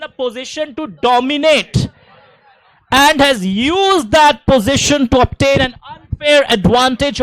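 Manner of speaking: teacher dictating the definition slowly; slow dictation. Shown as a demonstration. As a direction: spell it out slowly for students to copy. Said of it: "गला फाड़ के".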